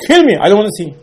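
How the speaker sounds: high, loud anguished plea; despairing plea. Acted. Moshe begging Hashem to take his life, high and anguished.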